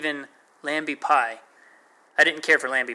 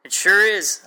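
happy; 6 semitones higher, 6 dB louder than usual. A narrator's reading. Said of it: "I agreed happily".

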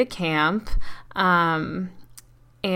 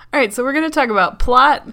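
hyped announcer; 6 semitones higher, 9 dB louder, faster than usual. Pretend. Announcing topics like a show.

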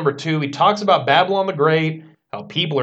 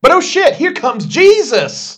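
much higher and louder, slow; excited; 12 semitones higher, 7 dB louder, slower than usual. Acted. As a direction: announce it with hyped excitement. Excited announcement of Jesus.

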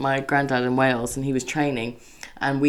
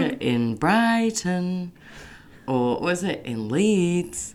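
Gogglebox impression; 4 semitones higher, much slower than usual. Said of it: "do your impression of the Gogglebox".

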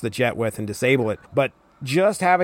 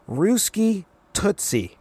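Ruski Tootsie slowly, pitched way up; exaggerated high sing-song Ruski Tootsie; mock squeaky taunt; higher mocking; 8 semitones higher, much slower than usual. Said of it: "Wheeler goes".

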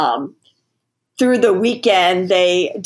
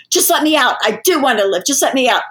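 mild angry plea; 4 semitones higher, faster than usual. Retold or imitated. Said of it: "angry and forceful".

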